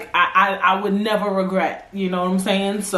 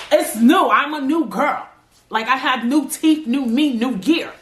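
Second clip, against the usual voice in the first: put-on excited new-girl declaration; 3 semitones higher than usual. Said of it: "I'm told my man".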